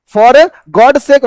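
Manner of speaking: each word drawn out, very slow; very slow demo. Shown as a demonstration. Teacher dictating the phrase to students, very slow. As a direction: say it slowly for the class to copy. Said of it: "का मतलब for God's sake".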